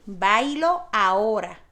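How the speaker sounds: bailo said slowly with weight on BAI; slow demo of bailo, stress on the first syllable. Shown as a demonstration. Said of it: "no tiene acento".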